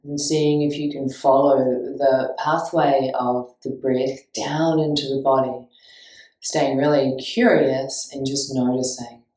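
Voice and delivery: steady, spacious meditation guidance; guided meditation. Real, not acted. Teacher guiding listeners to notice breath, calm guided meditation. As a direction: lead them into feeling the breath.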